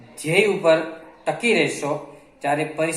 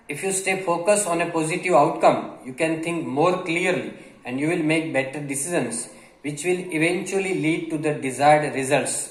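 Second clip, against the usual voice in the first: reads the English line very slowly, word by word; slow dictation reading; much slower than usual. Acted. Teacher reading a passage slowly to Gujarati learners. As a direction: spell it out slowly for the students.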